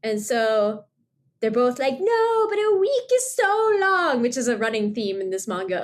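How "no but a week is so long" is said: put-on high, slow whine of a complaining teen; mock teen whining about a long week; whiny protest. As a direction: whine it like a kid begging. Characters whine about the ban.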